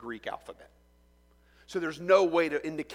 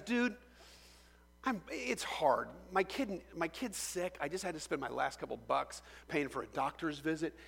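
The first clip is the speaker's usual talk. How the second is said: soft pleading; 6 dB quieter than usual. Acted. Debtor pleads about his sick kid.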